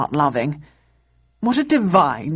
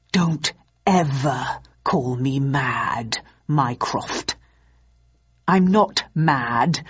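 menacing; 4 semitones lower, slower than usual. Acted. Acheron menacing Mycroft.

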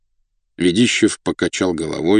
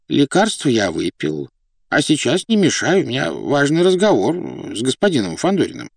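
высоким голосом, кротко оправдываясь; кротко уговаривай слугу; кроткий князь; 6 semitones higher than usual. A narrator's reading. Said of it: "кротко молвил князь". (кротко, просительно)

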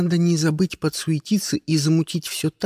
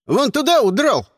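put-on kids yelling; 10 semitones higher, 4 dB louder than usual. A narrator's reading. Kids shouting.

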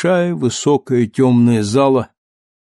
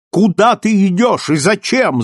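loud, high stern shout; 8 semitones higher, 4 dB louder than usual. Acted. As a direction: bark the order sternly. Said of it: "закричал он на него строго".

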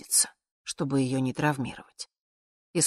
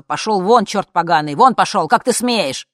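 loud, higher angry yell at the door; furious shout; 3 semitones higher, 11 dB louder than usual. Acted. Mother yelling at her unwanted visitor, furious shout. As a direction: drive her out with a furious roar.

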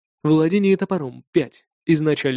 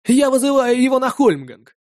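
high, louder insolent declaration with a grin; brash challenge; 9 semitones higher, 5 dB louder than usual. A narrator's reading. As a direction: fling the challenge grinning. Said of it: "заявил Стеки, нагло улыбаясь".

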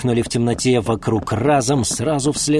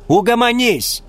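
sharp raised command; 12 semitones higher, 6 dB louder than usual. Acted. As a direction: cut him off sharply. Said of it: "сказала женщина резко".

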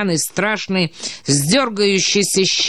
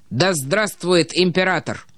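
ordinary delivery, nothing marked

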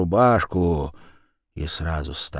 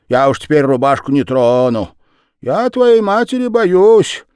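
голос Верявы; 7 semitones higher, 9 dB louder than usual. A narrator's reading. Верява оправдывается.

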